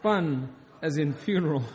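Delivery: chuckling as you say it; amused laughing retelling. Retold or imitated. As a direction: repeat the punchline through a laugh. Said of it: "she thought that was so funny".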